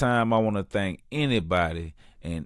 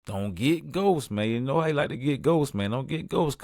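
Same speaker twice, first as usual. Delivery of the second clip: higher, pleading buddy voice; mock pleading; 4 semitones higher than usual. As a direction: beg your friend to come back, pitched up. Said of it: "I'm like".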